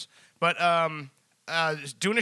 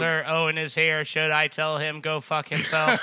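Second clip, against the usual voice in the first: sarcastic robot monotone; 3 dB louder than usual. Pretend. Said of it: "sarcastic robot".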